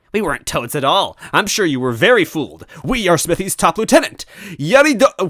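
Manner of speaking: high, loud boastful villain voice; smug villain toad. Acted. Toad villain boasting to captives, high and smug. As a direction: puff it up like a pompous henchman.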